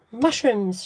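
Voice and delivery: a lively called-out word; shouting. Acted. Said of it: "shouts Anne".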